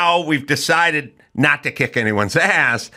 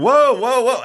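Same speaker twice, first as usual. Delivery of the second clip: mock indignant kid; 13 semitones higher than usual. Young guy objecting to being pushed, hammed-up indignant whine. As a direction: play the offended youngster, hammed-up. Protest repeated.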